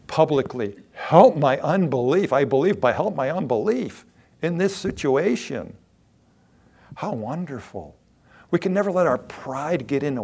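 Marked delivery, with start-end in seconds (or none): 0.9-5.8 public plea. Retold or imitated. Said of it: "no problem saying publicly".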